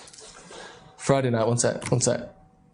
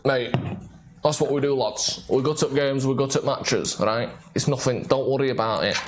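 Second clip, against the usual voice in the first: put-on putting on a regional football coach accent; thick-vowelled mock coach accent, offhand; Mike Phelan accent; 2 semitones lower than usual. Host imitates coach at press conference, put-on accent. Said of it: "That's my Mike Phelan accent".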